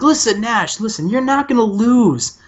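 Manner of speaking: lightly voiced sleazy TV boss sweet-talking; Bischoff impression. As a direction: pitch it up like a smarmy promoter reassuring his star. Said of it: "He's like".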